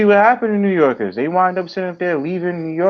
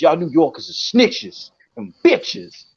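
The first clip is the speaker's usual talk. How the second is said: slow sneering voice; slower than usual. Retold or imitated. Texas troll insulting New Yorkers.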